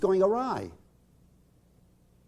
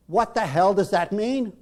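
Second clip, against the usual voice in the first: angry retort; 4 semitones higher, 5 dB louder than usual. Retold or imitated. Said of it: "Rob shoots a look at her".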